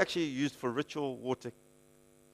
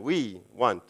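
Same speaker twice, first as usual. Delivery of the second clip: "We" drawn out ahead of "want"; stress on WE; 4 semitones lower than usual. Acted. Repeating the disciples' selfish demand, stress on "We". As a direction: put the weight on "We". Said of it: "I put the emphasis on the we".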